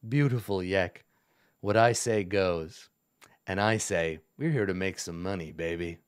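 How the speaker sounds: low, resonant villain baritone; a hint of a deep goblin king. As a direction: roll it out low like a smug lord. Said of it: "resonant baritone voice".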